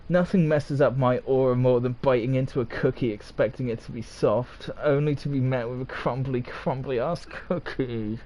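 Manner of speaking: a touch of sass, slowing at the end; sassy reading that drags the last words. Shown as a demonstration. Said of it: "Or should I say it sassy?".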